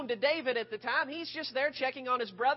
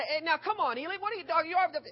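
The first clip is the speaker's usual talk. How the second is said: mock angry retort; 4 semitones higher, faster than usual. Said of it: "easy for David to say".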